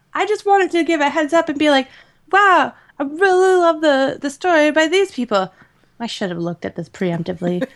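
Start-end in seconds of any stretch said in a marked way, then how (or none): 2.3-5.5 high-pitched mock enthusiasm; acted gushing. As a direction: gush as if effortlessly praising the story. Acts out the gushing she had planned.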